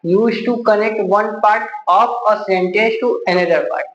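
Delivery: very slow, word by word, for notes; dictating the definition at a crawl; slow dictation. Shown as a demonstration. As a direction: spell it out slowly so students can write it down. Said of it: "तो हम दो point आप लोग को बताए हुए हैं".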